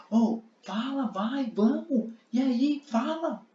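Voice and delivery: voz bem mais aguda, pressionando com deboche; fariseus impacientes. Acted. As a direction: cobre a resposta com impaciência, bem agudo. Fariseus pressionam Jesus a responder. (fariseus cobrando Jesus em voz aguda e impaciente)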